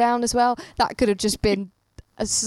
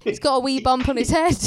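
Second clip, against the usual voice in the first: mock Irish accent; 3 semitones higher than usual. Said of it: "that's Irish".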